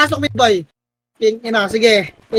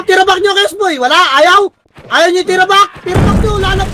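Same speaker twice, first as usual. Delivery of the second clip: ordinary talk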